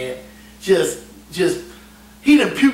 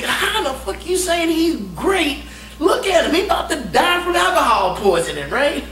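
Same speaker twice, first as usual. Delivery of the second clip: exasperated yelling; 8 semitones higher than usual. Retold or imitated. Narrator arguing with drunk superiors.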